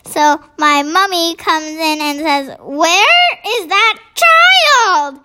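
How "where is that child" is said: put-on high, slow call for a missing child. A narrator's reading. Mummy looking for her boy in the bath, calling out. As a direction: demand it high, stretching the last word.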